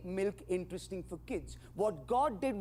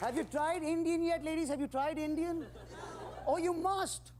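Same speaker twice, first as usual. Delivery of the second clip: higher, teasing come-on, slow on the no's; hammed-up seductive pitch; 8 semitones higher than usual. Comic to the ladies in the crowd, a hammed-up higher come-on. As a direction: lay the charm on thick, higher. Comedian hamming up a flirt with ladies.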